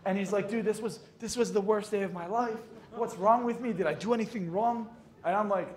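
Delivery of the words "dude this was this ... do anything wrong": mock-distraught, pitched up midway; dramatic friend. Rejected friend complaining to his pal, overdramatic. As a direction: imitate a friend making everything a crisis. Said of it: "Everything has to be dramatic".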